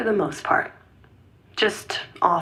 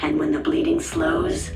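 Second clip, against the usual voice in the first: disguised, menacing voice; scary voice. Acted. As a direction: speak like a menacing shadow. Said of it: "What happened to the scary voice?".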